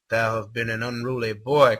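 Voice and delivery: archaic villain voice. Acted. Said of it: "that accent".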